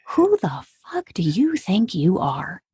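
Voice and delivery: slow, measured retold challenge; stern confrontation. Counselor repeating himself to the patient, imitated stern slow delivery. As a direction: repeat it slowly, weighting each word.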